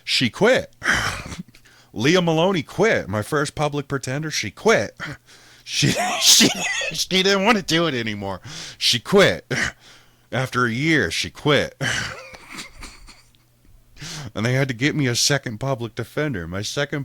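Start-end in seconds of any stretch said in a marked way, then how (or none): 0.0-11.8 gleeful laughing. Real, not acted. Gleeful telling lawyer quit.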